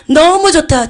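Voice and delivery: a loud joyful outburst at the scent; overjoyed. Retold or imitated. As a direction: cry out how good it is, loud.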